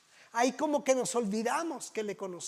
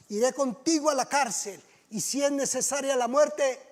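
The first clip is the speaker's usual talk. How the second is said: boastful Peter; 2 semitones higher, 6 dB louder than usual. Acted. Preacher voices Peter boasting to Jesus, loud brash vow. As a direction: swear loyalty with puffed-up bravado.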